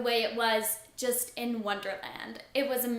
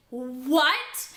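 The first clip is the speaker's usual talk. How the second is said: shocked. Retold or imitated. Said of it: "trying not to scream".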